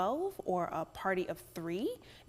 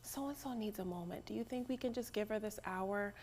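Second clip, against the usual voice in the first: hushed whisper to the group; very soft, confidential whisper; discreet whisper; 11 dB quieter than usual. Acted. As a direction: whisper a polite, private request. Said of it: "I'll just whisper and say".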